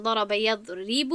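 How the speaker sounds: یضرب slowed, with its "ri" drawn out; stress on the kasra. Shown as a demonstration. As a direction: lean on the long-held "ri" in یضرب. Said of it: "با کسره".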